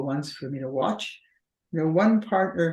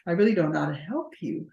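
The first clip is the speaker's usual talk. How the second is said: patronizing. Retold or imitated. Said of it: "it becomes so patronizing".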